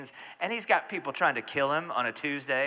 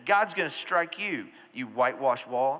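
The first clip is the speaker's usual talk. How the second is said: slow, louder heated threat; trash talking; 3 dB louder than usual. Retold or imitated. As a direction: throw the threat back at him. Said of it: "That's New Testament trash talking".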